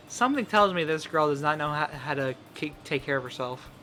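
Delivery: put-on soft, snippy girl voice; Natsuki voice. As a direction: scoff as the tsundere. Voicing Natsuki.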